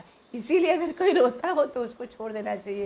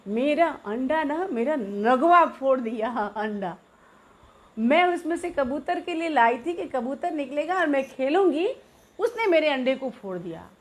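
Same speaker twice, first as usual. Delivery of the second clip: crying complaint; 3 semitones higher than usual. Retold or imitated. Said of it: "मैं रोते-रोते हिचकी बंधे हुए और बोली".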